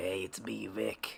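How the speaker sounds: mock coughing, raspy voice. Describing a woman who can't stop coughing on calls, imitating Vic's sick voice. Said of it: "it sounds like a 40-year-old smoker".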